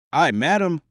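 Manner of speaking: high protesting cry. A narrator's reading. The Duke protests to the Queen, crying out. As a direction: exclaim it, pitched well up. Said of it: "cried the Duke".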